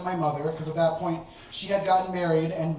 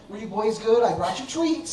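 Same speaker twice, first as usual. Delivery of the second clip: talking to pets; 3 semitones higher than usual. Retold or imitated. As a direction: greet the cats like babies. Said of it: "I'd be like".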